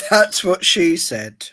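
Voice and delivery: slow, through held water; words through a mouth of water. Real, not acted. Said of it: "hold water in my mouth".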